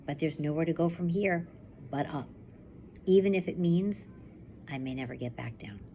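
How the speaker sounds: steady first-person reading to a class; story narration. A narrator's reading. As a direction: read it like a survivor telling her own story. Teacher reads novel aloud.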